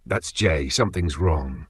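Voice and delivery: soft, sinking worried murmur; quiet, anxious realization; dread. Acted. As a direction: say it under your breath as fear sets in. Phone keeps ringing, heart skipped.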